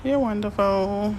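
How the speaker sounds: slow and sincere, drawing the words out; slow fond praise. Real, not acted. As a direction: linger on You're wonderful as a heartfelt compliment. Praising a viewer.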